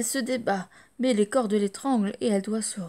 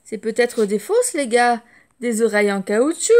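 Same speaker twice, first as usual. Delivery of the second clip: brat teasing; 7 dB louder than usual. Acted. Brat taunting the elephant.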